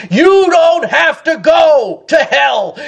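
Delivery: "you don't have to go to hell" called out slowly, weight on "you"; slow, fervent proclamation to the lost, stretching "you" and "hell"; preached appeal. Real, not acted. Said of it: "I say to every lost sinner".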